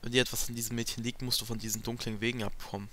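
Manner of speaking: lightly voiced characters in a dramatic read; reading game dialogue. Player reading a Fire Emblem cutscene aloud, lightly voiced dramatic read. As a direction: read the cutscene lines like a dub.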